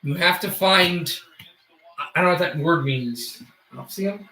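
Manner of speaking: steady sportscaster call; hockey play-by-play. Acted. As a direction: narrate the hockey game live.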